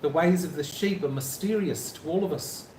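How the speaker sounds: rough attempt at a New Zealand accent; Kiwi accent. Shown as a demonstration. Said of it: "Bit ropey".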